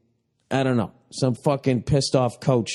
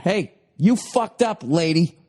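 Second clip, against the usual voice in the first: mock yell; 3 semitones higher than usual. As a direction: tell her off, drawn out. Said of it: "just yelling at her".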